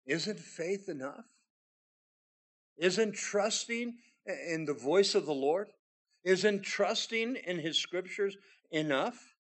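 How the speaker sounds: slow, pointed questions hitting Isn't; rhetorical challenge. Acted. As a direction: press each question slowly.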